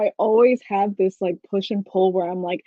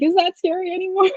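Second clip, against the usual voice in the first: mock doubt; 11 semitones higher, faster than usual. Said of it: "I'm like".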